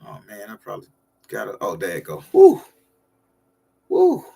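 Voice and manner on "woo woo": high whooping cheer; excited woo. Real, not acted. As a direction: let out a high happy whoop. Cheering on the livestream.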